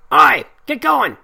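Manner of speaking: high, slow bellowing pirate; pirate shout. A narrator's reading. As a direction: bark it like a rough pirate.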